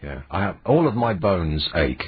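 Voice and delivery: hoarse, sore-throat voice; rough like a dog's tongue; rasping voice. Real, not acted. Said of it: "have you got a bit of a rasping voice?".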